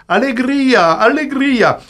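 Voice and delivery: high, ringing cry of joy; hammed-up festive chant; mock jubilation. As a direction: celebrate like the arena crowd.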